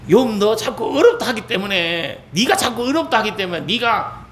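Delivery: scolding. Retold or imitated. Elihu turning on Job over his complaints, scolding. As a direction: nag him in exasperated reproach. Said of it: "욥을 또 뭐라 하는".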